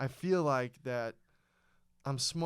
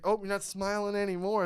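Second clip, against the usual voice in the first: mocking taunt; 7 semitones higher, 5 dB louder than usual. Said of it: "It's like".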